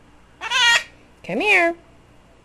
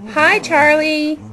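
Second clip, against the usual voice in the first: talking to a bird; 4 semitones higher, 7 dB louder than usual. Shown as a demonstration.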